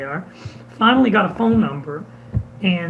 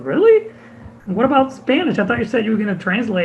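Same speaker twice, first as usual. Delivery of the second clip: surprised; 4 semitones higher than usual. Retold or imitated. Kitty surprised by the request.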